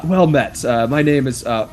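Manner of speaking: lightly voiced raspy corpse; a hint of a raspy undead host. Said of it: "in a raspy voice".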